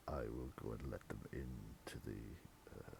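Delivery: very low, soft, long-suffering servant; deep weary murmur; weary butler. Acted. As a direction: sigh the words out like a put-upon butler.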